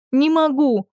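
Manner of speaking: high strained cry; shouted reply. A narrator's reading. Дочь кричит отцу, что не может сдвинуться, громко и отчаянно. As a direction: shout back in helpless frustration. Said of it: "крикнула я ему".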